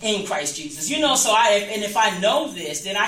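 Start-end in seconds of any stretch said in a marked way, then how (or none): 0.0-0.9 low, steady affirmation; firm declaration. Shown as a demonstration. Speaking to the congregation, a low firm self-affirmation. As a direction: declare it to yourself, low and sure. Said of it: "take that switch and switch it off".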